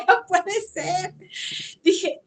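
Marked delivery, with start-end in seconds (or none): 0.1-1.1 slow, high, drawn-out no puede ser; a slow, laughing can't-be; disbelief. Retold or imitated. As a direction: stretch it out in stunned disbelief. Disbelief at the message.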